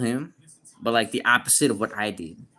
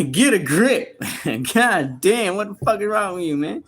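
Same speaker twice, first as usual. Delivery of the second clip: high and loud, laughing through it; laughing scold; 9 semitones higher, 7 dB louder than usual. Real, not acted. Laughing at a viewer who asked twice, loud and high. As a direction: crack up while telling him off.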